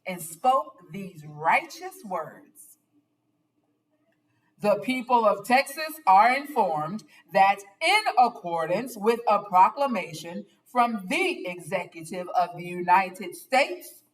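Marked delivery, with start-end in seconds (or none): 4.6-14.0 louder, commanding proclamation; booming general. Acted. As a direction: address the crowd like a general. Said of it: "raised his booming voice".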